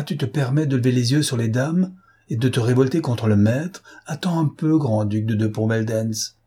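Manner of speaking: raillerie méprisante, un peu plus haute; moquerie rageuse. Acted. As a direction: nargue le faux duc. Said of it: "Il ricanait rageusement". (sarcasme furieux)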